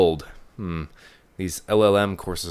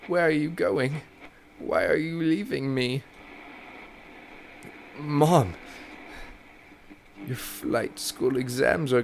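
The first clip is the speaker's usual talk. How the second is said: pleading mother; 4 semitones higher than usual. Acted. Mother pleading with Davy not to leave. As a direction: beg him not to leave, a touch tender. Mother remembers, begs son to stay.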